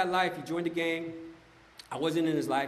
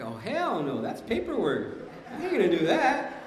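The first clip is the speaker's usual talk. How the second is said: laughing refusal; 2 semitones higher than usual. Retold or imitated. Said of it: "It's like".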